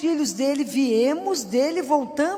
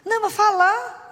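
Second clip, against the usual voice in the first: higher, louder retold insistence; insistent; 8 semitones higher, 5 dB louder than usual. Stranger insisting the praying woman should talk, insistent. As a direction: press the point in a raised, acted voice.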